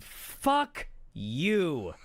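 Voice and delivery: high, loud furious yelling, re-enacted; screamed outrage. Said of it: "and I just screamed".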